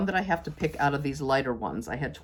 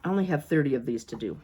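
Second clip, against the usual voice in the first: exasperated; 2 semitones lower, faster than usual. Real, not acted. Overwhelmed by cutting many pieces.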